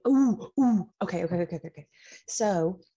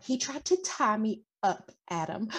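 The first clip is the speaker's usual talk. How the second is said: hammed-up damsel; 7 semitones higher than usual. Cerulean charming Adam with a fake rescue story, high and breathless. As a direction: play the rescued victim for sympathy. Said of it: "I run up towards Adam and I go".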